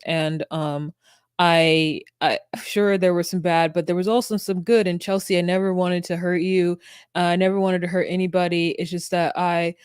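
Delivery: imitating a halting, fumbled apology; mock floundering speech, groping for what to say; stumbling. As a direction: stumble through with ums and restarted words. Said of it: "He is just stumbling through this".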